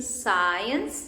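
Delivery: science with a soft s sound. Shown as a demonstration. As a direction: science said with s, never k. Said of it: "it's soft again".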